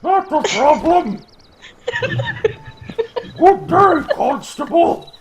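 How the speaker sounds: high, loud mock Swedish accent. Suspect waving off the police, fake Swedish accent. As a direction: send them off in a silly high Swedish accent. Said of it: "That's my Swedish accent".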